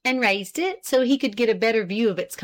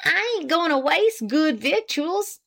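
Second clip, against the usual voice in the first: 1 decisive wife; 8 semitones higher than usual. A narrator's reading. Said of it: "with decision".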